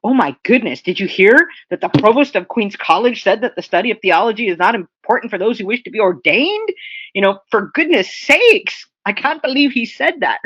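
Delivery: mock-astonished, pitch lifting toward the end; acted scandalised disbelief; incredulous. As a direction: say it like you can't believe your ears. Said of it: "in other words, you're saying".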